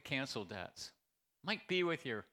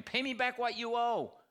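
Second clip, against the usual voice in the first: louder, higher harsh demand; 8 semitones higher, 6 dB louder than usual. Acted. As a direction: bark the demand like a creditor. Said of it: "he demanded".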